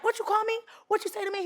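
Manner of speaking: high-pitched mock confrontation, same loudness; imitating an angry challenge. Retold passenger confronting another man.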